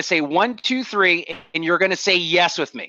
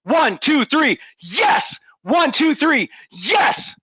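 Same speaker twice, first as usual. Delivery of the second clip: a touch higher, rising yes on each count; energetic count; 4 semitones higher, much slower than usual. Shown as a demonstration. Speaker leading the crowd in a yes chant, energetic. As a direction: pump up the room with the count. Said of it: "On the count of three".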